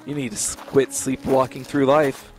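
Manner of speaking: lightly voiced scolding wife; a hint of a nagging wife; wife's voice. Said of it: "she'd say".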